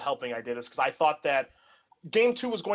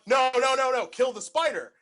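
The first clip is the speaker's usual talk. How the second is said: high and loud no, no, no; insistent teammates; 9 semitones higher, 5 dB louder than usual. Retold or imitated. Teammates correcting the wrong target, loud and insistent. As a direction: cut him off, loud and pleading. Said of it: "and they're like".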